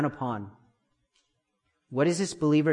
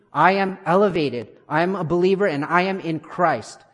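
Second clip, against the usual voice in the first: louder, emphatic preacher's proclamation; confident declaration; 3 semitones higher, 4 dB louder than usual. Shown as a demonstration. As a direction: affirm it out loud with conviction. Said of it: "speak out loud and say".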